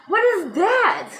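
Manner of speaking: high, slow, laughing what-is-that; laughing disbelief. Retold or imitated.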